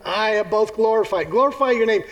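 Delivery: voice from heaven. Acted. Voice from heaven answering Jesus, lightly booming. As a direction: announce it like God from the sky. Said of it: "A voice came from heaven".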